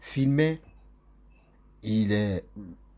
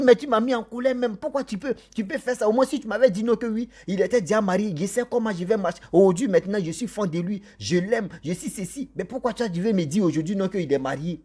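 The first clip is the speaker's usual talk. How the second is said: higher-pitched mock angry scolding; angry reproach; 6 semitones higher than usual. Girl scolding her friend about the married man, mock angry. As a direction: imitate the girl's heated complaint. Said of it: "Elle s'est mise en colère".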